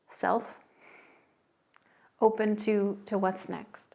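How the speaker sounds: calm guided meditation. Acted. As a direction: ease them toward the threshold, gently. Opens the meditation theme.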